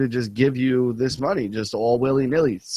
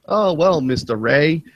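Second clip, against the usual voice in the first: imitating scammer; 4 semitones higher, slower than usual. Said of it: "another Indian guy".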